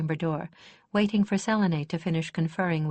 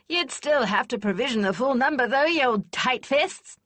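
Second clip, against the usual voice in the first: put-on higher, louder old warhorse of a lady; exclaiming; 7 semitones higher, 5 dB louder than usual. A narrator's reading. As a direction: fire up like a warhorse hearing the bugles. Kester teasing the Lord Marshal.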